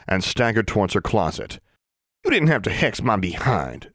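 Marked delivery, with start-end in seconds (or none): 2.2-3.9 mumbled indignantly. Acted. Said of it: "she mumbled indignantly".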